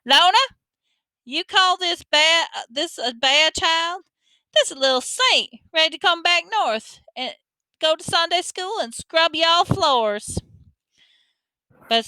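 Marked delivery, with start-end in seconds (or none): 0.0-10.4 high-pitched hollering down the phone; shouting grandma. A narrator's reading. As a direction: holler like an outraged old granny, drawing it out. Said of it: "hold the phone away from your ear while she shouted".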